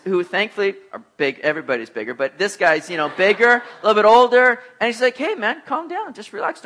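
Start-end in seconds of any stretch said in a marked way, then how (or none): 5.2-6.6 higher, softer placating voice; easy, hushed-down reassurance; calming down. Retold or imitated. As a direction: imitate a friend soothing a hothead. Bigger friend defuses the fight.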